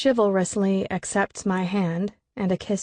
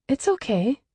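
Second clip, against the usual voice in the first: pleasant smile; 6 semitones higher than usual. Acted. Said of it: "with a pleasant smile".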